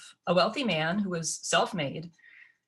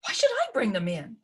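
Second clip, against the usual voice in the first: shocked; 3 semitones higher than usual. Acted.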